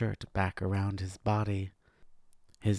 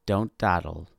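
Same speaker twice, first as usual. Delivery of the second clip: slow, higher, drawn-out warning; menacing uncle; 4 semitones higher, 3 dB louder, much slower than usual. A narrator's reading. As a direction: stretch each word as a threat.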